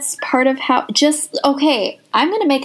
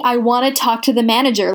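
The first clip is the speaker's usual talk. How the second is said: entitled manager tone. Retold or imitated. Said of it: "that's what that tone is".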